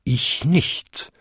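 a hint of a bonging bell; bell's bong. A narrator's reading. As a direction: answer like a large bell, lightly voiced. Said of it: "bummte die zweitgrößte".

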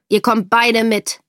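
the officer commanding father and daughter; stern order. Acted. (laut befehlend)

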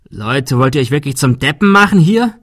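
a frightened man snapping at the group; loud and panicky. Acted. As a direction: Adrian loses his nerve and yells at the others, panicky. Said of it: "Er wurde laut und klang panisch".

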